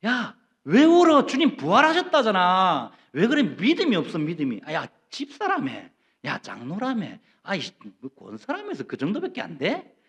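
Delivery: mock rebuke, loud at first then fading; scolding. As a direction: nag a grieving believer. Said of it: "라고 우리는 핀잔 주잖아요". (우는 교인을 나무라는 핀잔조)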